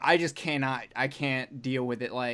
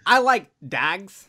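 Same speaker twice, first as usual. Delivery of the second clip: slow, louder movie-quote impression; Brad Pitt in Snatch; 3 semitones higher, 6 dB louder, slower than usual. Quoting Snatch to cohosts, slow put-on character voice. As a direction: draw out the quote, loud and slow. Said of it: "what Brad Pitt is saying in Snatch".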